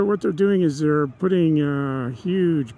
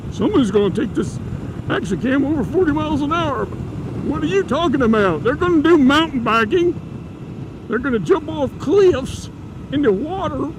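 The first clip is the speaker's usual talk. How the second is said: much higher, hammed-up Japanese accent; mock Japanese accent; 10 semitones higher than usual. Sony engineer arguing over the mic jack, mock Japanese accent. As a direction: keep up the excited Japanese accent, pitched high. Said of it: "That's my Japanese accent".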